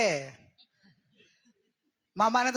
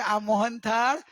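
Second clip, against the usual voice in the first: slow reflective line; slower than usual. Shown as a demonstration. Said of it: "ખાતી વખતે કહેવાનું કે".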